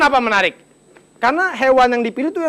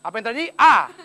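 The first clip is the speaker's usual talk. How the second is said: mock quiz host. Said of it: "kirimkan jawaban Anda ke S M S".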